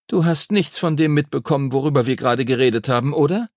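put-on exasperated young classmate; reproachful schoolgirl. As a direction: mildly chide a friend as a girl. Lucy chides inattentive Henry.

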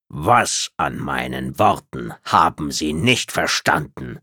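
kühl und von oben herab, langsam; herablassende Reptiloidin. Acted. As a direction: lass sie jede Silbe überlegen auskosten. Tretzab, genervt, kalt. (herablassende Außerirdische, leicht angedeutet)

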